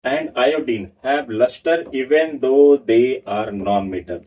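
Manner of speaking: slow note dictation to a class; dictating notes. Acted. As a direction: read it out slowly so students can write.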